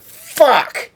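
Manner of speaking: replaying the loud frustrated yell; retold yell. Recounting his yell on getting home, loud. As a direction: shout the one word as he did then. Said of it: "I sat down here and I went".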